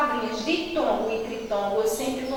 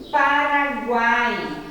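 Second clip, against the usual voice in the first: slow demo word; 3 dB louder, much slower than usual. Shown as a demonstration. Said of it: "ó, na palavrinha".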